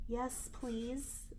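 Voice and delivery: soft and timid; quiet shy yes please; not very loud. A narrator's reading. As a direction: say it barely above a whisper, shy. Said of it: "but not very loud".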